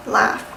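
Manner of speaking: "Laugh" for life, Southern vowel. Shown as a demonstration. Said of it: "That's Southern".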